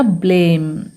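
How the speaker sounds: "ब्लेम" with a slow, held long ay; long A sound. Shown as a demonstration. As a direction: stretch the vowel in "ब्लेम". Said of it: "ए को उसके long sound से पढ़ेंगे". ("ब्लेम" में ए को लंबा खींचें)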